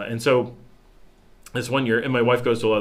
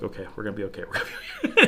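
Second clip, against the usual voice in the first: mock self-reassurance; faster than usual. Self-reassurance while holding his head.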